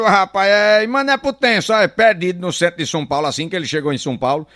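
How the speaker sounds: usual speaking voice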